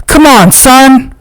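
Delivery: slow, very high drawn-out yell. A narrator's reading. Jerome willing his dog on, slow high yell. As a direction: stretch out the cheer to your dog. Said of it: "Jerome yells".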